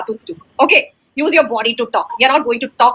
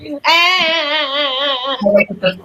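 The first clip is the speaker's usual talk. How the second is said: long drawn-out fake wail; pretend crying. Shown as a demonstration. Teacher urges pupil to cry more, pretend wailing. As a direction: keep the mock sobbing going. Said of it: "Now there is even more".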